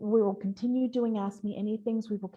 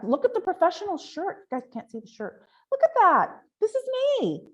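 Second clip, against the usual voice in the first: high excited showing off, much higher; bright joking boast; playful show-off; 10 semitones higher, 5 dB louder than usual. Real, not acted. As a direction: proudly show off the shirt, laughing at yourself. Jokingly shows off her shirt.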